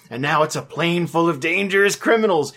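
usual speaking voice

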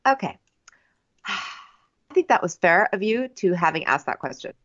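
a lightly voiced breathy, sighing bachelor; sigh, then breathe the words out like a TV bachelor; a hint of a mumbling Colton; Colton impression. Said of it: "This is how he talks".

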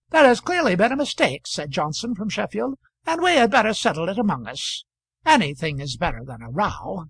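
calm the row down; peacemaking Johnson. Acted. Johnson from Sheffield urging everyone to settle it, earnest.

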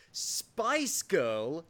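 slow, demonstrative Scottish accent. Shown as a demonstration. British host reveals the accent trick, slow Scottish accent. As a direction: draw it out in Scottish. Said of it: "a Scottish accent".

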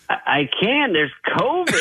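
a lightly voiced Norm backing out; imitating Norm. Host retelling Norm's covid excuse, mock hesitant.

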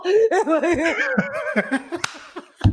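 long high-pitched comic wail; drawn-out squeal of mock despair. Host upset for losing contestant, high wail.

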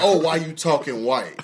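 mock scornful "why you talking white"; lightly voiced scoffing accuser; mock accusing. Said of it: "we say".

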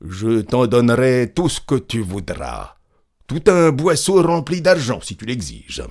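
lightly voiced insistent offer, swelling then dropping; eager peasant. A narrator's reading. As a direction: press the offer on him. (paysan qui insiste)

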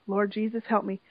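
low, softened pleading, imitating near-hyperventilation; retold desperate prayer. Retelling a crying man's prayer, understated desperate pleading. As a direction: murmur an imitated plea, understated. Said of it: "almost hyperventilating".

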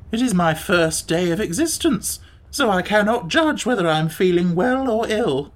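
lightly voiced, lilting creature; hint of a theatrical, resigned beast; mildly put-on Gump voice, pitch swooping; pensive Gump.

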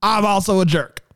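drawled Southern card message; Southern accent. Pretend. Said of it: "Sounds very Southern to me".

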